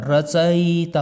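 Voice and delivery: रचयिता said slowly, every syllable clear; रचयिता drawn out as ra-cha-yi-ta; slow careful pronunciation. Shown as a demonstration. Teacher repeats the correct form slowly. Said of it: "शुद्ध उच्चारण करना".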